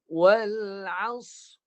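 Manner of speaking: Wal as with sad cut off, no ra sound; wrong reading. Shown as a demonstration. Teacher demonstrating the first mistake, ra missing. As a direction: say Wal as dropping the ra at the end. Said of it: "kesalahan pertama dibaca begini".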